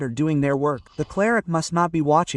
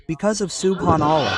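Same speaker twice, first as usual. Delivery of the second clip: loud prompt. Shown as a demonstration. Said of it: "Say it so loudly".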